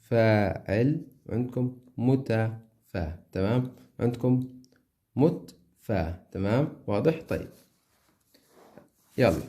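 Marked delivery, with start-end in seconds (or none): 1.3-3.2 slow, drawn-out syllables; teacher dragging out the meter; stretched syllables. Shown as a demonstration. 4.0-6.3 slow, drawn-out syllables; teacher dragging out the meter; stretched syllables. Shown as a demonstration.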